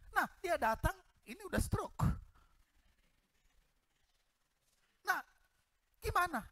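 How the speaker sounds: high, rueful disbelief; incredulous. Real, not acted. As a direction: throw it up high, what now. Disbelief at stroke husband. (heran dengan nada tinggi)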